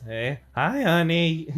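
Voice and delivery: high, loud lovey-dovey greeting; sweet talk. Retold or imitated. Ice King greets his penguin-drawn fiancée in a high lovey voice. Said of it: "he says".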